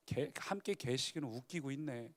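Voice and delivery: soft, scoffing words under the breath; muttered aside. Acted. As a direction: grumble it to yourself. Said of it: "혼잣말처럼".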